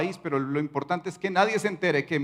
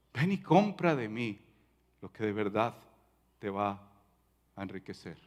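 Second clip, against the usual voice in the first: tender invitation; 6 semitones lower, 7 dB quieter than usual. Acted. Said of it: "como diría nuestro Señor".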